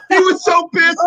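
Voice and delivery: high, loud words through laughter; laughing. Real, not acted. Telling friends about the angry fan, laughing. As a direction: crack up while getting the words out. Cracking up at own story.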